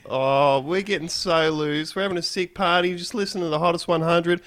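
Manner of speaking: loose party punter phoning in; elated radio caller. Acted. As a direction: play a wasted, happy caller bragging about the party. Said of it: "he's having the time of his life".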